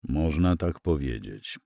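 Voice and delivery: low, soft, slow reply; subdued, heavy-hearted answer; heavy-sighing admission. A narrator's reading. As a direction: concede it slowly and quietly, with a weary sigh. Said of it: "westchnął ciężko".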